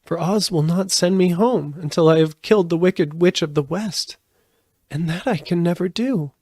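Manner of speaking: put-on high, downcast little girl's voice; Dorothy telling her friends, voiced high and sad; sadly. A narrator's reading. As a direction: sigh it out like a hopeless child. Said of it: "she said sadly".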